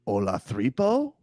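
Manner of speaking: Olathripo said with a lisping th in the middle; mangled name. Retold or imitated. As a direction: say Olathripo as a botched Oladipo. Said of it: "as the great Eric Reed calls him".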